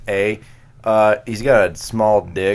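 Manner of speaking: lightly voiced buddy, mock dumb answer; mock Adam. Friend mocking how Adam would list answers, lightly voiced. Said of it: "my impersonation of if Adam would have".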